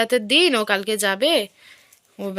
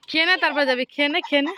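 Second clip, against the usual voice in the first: coaxing call; 5 semitones higher, faster than usual. Real, not acted. Mother urges son to eat before leaving, raised coaxing. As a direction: coax him, a bit raised.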